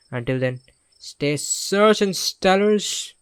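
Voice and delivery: lightly hammed YouTube host intro; vlog voice. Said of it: "vlog voice".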